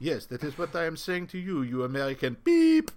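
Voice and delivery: lightly voiced banker, precise retort, long "beep"; Swiss banker's thought. Swiss banker silently answering the American, mock hostility. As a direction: answer back as the banker in your head. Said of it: "being introduced to a Swiss banker".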